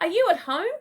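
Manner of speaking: roepend; calling out. Acted. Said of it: "Crikey called out".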